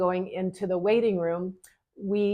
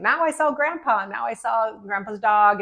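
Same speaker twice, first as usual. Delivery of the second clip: put-on ecstatic boy; 3 semitones higher, 5 dB louder than usual. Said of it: "he was just ecstatic and joyful".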